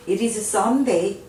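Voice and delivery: very slow, every word laid out; slow model reading. Shown as a demonstration. Teacher to Korean learners, slow model reading. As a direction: spell it out slowly for learners. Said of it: "teacher models an answer".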